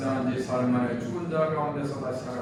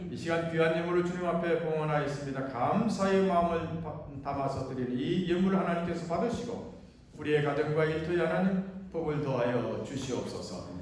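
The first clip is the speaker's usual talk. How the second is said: formal church prayer, rising in pleas and falling at each close; public prayer. Acted. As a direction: lead the congregation in an earnest offering prayer. Leads the offering prayer.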